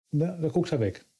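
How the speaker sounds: ordinary delivery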